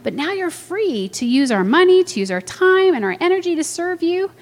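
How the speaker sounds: high, swooping protest; acted pleading. Peter arguing with Jesus, acted high protest.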